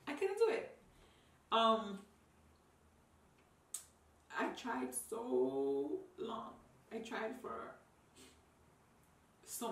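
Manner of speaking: barely holding it together; sobbing. Real, not acted. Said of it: "I didn't expect to get that emotional".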